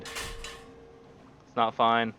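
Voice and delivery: drawn out, despairing; slow despairing. Real, not acted. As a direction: stretch it out in dismay. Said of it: "I lied".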